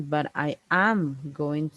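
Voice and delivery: "am" weighted for contrast; stress on AM. Shown as a demonstration. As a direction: lean on "am" against what came before. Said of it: "whenever we put emphasis to the auxiliaries".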